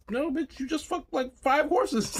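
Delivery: high, loud, slowing disbelief; incredulous shout. Retold or imitated. Answering the wife's question, shouting in disbelief. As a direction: yell it, dragging out five horses. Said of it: "I was like".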